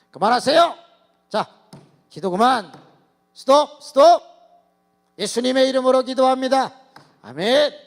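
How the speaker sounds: high, loud commanding call; calling a halt. Retold or imitated. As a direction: stop the room with your voice. Pastor halting the prayer meeting.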